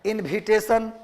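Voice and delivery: इनविटेशन said with a breathy bh, as in-bhi-te-shan; Bihari pronunciation. Shown as a demonstration. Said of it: "तो ये हमारा tone है".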